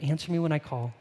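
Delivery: glazed-over recital, a little muted; sing-song reading. Shown as a demonstration. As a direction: read it by rote, with little feeling. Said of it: "read it in a sing-song voice".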